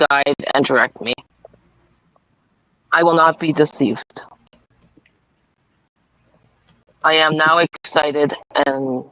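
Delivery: measured read-aloud with long pauses; affirmation card reading. Acted. Reader giving Debbie her awareness card, measured affirmation reading. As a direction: read it out deliberately, phrase by phrase.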